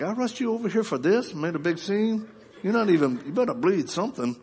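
a touch of an indignant wife's complaint; imitating mad wife. Wife scolding husband for not bleeding, mildly mock mad. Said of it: "my wife is mad".

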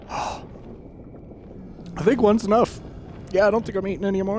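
slow, breathy hoarse words from spice; mouth on fire. Real, not acted. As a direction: talk through a burning mouth. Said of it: "my mouth is on fire".

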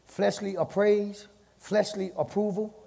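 slow, each word stressed; slow emphatic list. Acted. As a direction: space the words out. Slowed listing.

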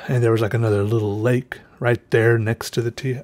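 breathless, sighing between phrases; winded from the hike; out of breath. Real, not acted. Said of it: "I'm, like, out, out of breath just talking".

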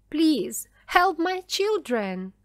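high, pleading cry. A narrator's reading. Mother crying out for her children, pleading. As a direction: beg urgently for your children. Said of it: "cried Missus Dawson".

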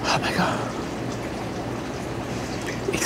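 breathless whispered awe; awed whisper. Real, not acted. Smelling the finished blend, whispering in awe. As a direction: whisper it, overcome by the scent. Overwhelmed by the candle scent.

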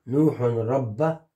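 very slow, drawn-out dictation; dictating. Shown as a demonstration. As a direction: stretch each word for the learner. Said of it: "نعم، عبد".

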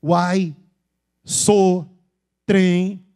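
loud, isolated Minas Gerais catchwords; showy Minas Gerais accent; mineiro accent. Shown as a demonstration. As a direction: imitate a mineiro emphatically. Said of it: "Como é que o mineiro fala?".

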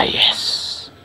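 whispered yes. Real, not acted. Whispered triumph.

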